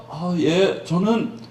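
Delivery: a woman embarrassed to explain; hesitant woman. Acted. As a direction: stall and stumble for words. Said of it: "그러니까 여자가".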